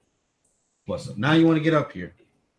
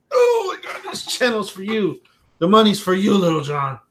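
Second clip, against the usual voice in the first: squealing high, louder delight; excited gushing; 7 semitones higher, 5 dB louder than usual. Real, not acted. Dad gushing to his son about the channel, squealing high.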